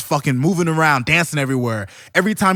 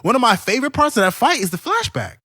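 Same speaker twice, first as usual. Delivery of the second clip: excited fan; 8 semitones higher than usual. Real, not acted. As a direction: gush about the best part. Excited about favorite part.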